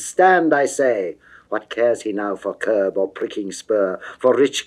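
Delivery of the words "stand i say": angry command. Acted. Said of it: "his rider's angry stir".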